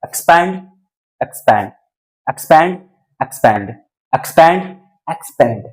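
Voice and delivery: एक्सपैंड repeated with a front vowel, close to "expend"; traditional pronunciation demo. Shown as a demonstration. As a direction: say एक्सपैंड in separated pairs, first up, then falling. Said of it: "अब जरा सुनो आप".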